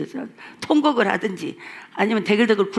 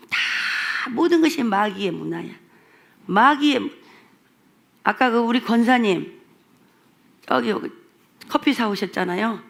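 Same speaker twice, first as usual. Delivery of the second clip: ordinary talk, nothing marked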